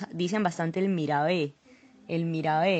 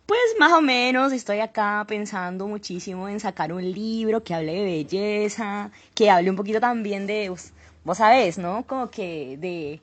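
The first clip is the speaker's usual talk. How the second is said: put-on describes food in her Cali Colombian accent. Guest keeps up the Colombian accent for the host, Cali Colombian accent. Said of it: "haznos el acento colombiano".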